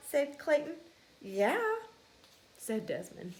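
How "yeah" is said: higher defiant retort; defiant yeah. Acted. Field mouse retorting to Clayton, higher and defiant. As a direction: snap back at him. Kids' quarrel.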